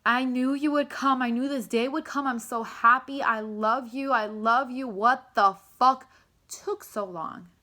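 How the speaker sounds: swelling joy with a mock-angry ending; overjoyed reunion. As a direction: pour out love, then demand why so late. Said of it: "It's like".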